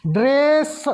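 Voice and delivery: ड्रेस with ड barely touched and रे full; short da sound. Shown as a demonstration. Teacher demonstrates ड्रेस for students with a clipped ड. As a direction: clip the ड in ड्रेस to almost nothing. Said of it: "डा को बहुत कम देर पढ़ेंगे".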